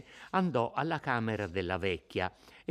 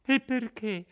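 much higher, fear mixed with defiance; a frightened girl finding her nerve; trembling, desperate indignation; 11 semitones higher, 4 dB louder than usual. Acted. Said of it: "col tremito della paura ... indignazione disperata". (Lucia indignata e tremante, voce molto più alta)

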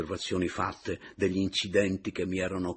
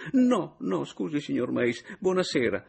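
huffy goodbye; 10 semitones higher, 5 dB louder than usual. A narrator's reading. Adriana leaving in a huff.

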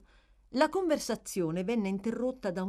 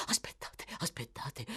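faint; 3 semitones lower, 7 dB quieter than usual. Acted. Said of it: "pronunciate sempre più fiocamente".

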